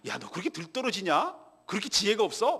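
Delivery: lightly voiced scornful father figure; mock scolding. Preacher mocking a God who scolds, mild scolding. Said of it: "막 이렇게 야단치고 생색내는".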